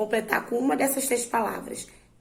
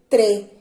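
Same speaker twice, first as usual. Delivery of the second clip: "tre" said louder, on its own; stressed syllable; 8 dB louder than usual. Shown as a demonstration. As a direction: punch out "tre" as the strong syllable. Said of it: "Qual é a sílaba mais forte".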